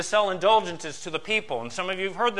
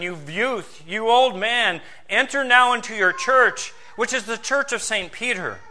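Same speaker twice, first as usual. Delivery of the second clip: lightly acted medieval preacher, raised and emphatic; powerful, persuasive preacher; 3 semitones higher than usual. Tetzel urging churchgoers to buy remission, powerful preacher. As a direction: exhort the congregation as a persuasive preacher would. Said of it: "Tetzel was a powerful and persuasive preacher".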